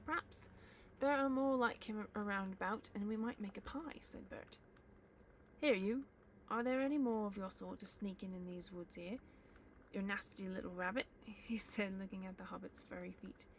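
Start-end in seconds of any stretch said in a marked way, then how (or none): 0.0-4.0 troll voice. Acted. Troll Bert. 5.6-11.1 loud, rough troll threat; troll Bert menaces the hobbit, loud and rough; menacing troll. Acted.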